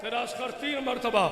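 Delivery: high but very soft, falling; hushed repeat. Acted. Infant's words repeated to mourners, soft hushed. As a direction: drop the wail to a near whisper. Same words dropped to a hush.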